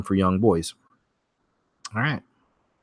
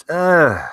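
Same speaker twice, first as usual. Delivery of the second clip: disgusted groan; 8 semitones higher, 5 dB louder than usual. Real, not acted. Host recoiling from the baby-tissue article, disgusted groan. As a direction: let out a revolted "uh".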